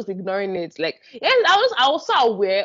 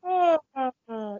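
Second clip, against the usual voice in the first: yawn exhale; slower than usual. Shown as a demonstration. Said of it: "trying to show you an example of how you yawn".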